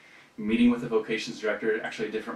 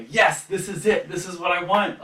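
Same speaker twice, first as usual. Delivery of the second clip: imagined elation; 7 semitones higher, 5 dB louder than usual. Pretend. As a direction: savor each word like a dream come true. Imagined triumphant seminary moment.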